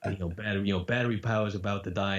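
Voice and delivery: New Yorker with a light Brooklyn twang; slight New York accent, weary and failing; lightly put-on Brooklyn voice. Shown as a demonstration. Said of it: "slight Brooklyn".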